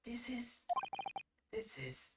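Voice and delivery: whispered, awestruck build-up; hushed awe. Acted. Voicing the client, whispering in awe before his big line. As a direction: breathe it in wonder before the outburst.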